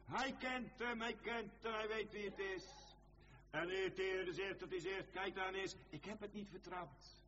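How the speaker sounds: high, urgent pulpit declamation; impassioned preaching. Acted. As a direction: preach it in a high, driving chant. Preaching at full force.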